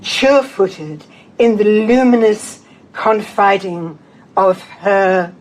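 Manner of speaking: slow, measured poem recital with deliberate pauses; poetry reading. Acted. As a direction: read verse aloud, phrase by phrase. Reads own poem to audience.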